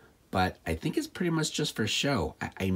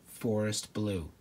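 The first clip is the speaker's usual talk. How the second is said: dreamy; much slower than usual. Real, not acted. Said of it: "how beautiful".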